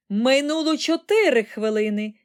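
high, loud countdown shout; calling out the time. A narrator's reading. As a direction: cut in with an urgent time call. Wonka cuts in with countdown.

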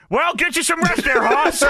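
announcer bidding the patient goodnight. Retold or imitated. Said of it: "J R says".

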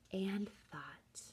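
quiet whispered pondering. A narrator's reading. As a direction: whisper it, drawn out. Whispered thinking.

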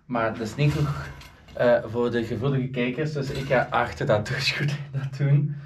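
normal talking voice

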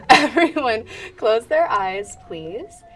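change your voice so nobody knows; disguised voice. Shown as a demonstration. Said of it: "I'm just moving my voice around".

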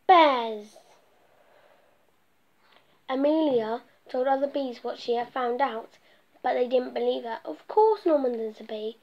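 lively storybook narration read aloud; reading to children. A narrator's reading. Storyteller reading a picture book to children, lively. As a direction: tell the bee story to little listeners.

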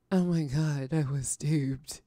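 hushed, slowed-down whisper of disbelief; whispered dismay. Retold or imitated. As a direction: breathe the words out slowly like a stunned sigh. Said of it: "I'm like".

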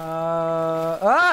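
ordinary talk

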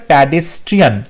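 pedestrian misread as "প্যাডেস্ট্রিয়ান", opening on "pad"; "প্যাডেস্ট্রিয়ান", first syllable rhyming with "pad"; wrong first vowel. Shown as a demonstration. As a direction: say "প্যাডেস্ট্রিয়ান" with an open "pa" instead of "pe". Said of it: "এটা ভুল হচ্ছে".

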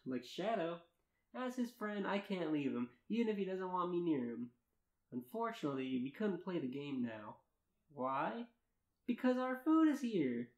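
earnest read-aloud of a first-person tale; story narration. Acted. Narrator reading fan fiction to friends, story narration. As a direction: narrate it in measured, lilting sentences.

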